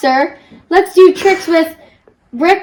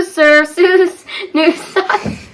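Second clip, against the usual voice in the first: laughing; slower than usual. Real, not acted. Tongue-twister stumble.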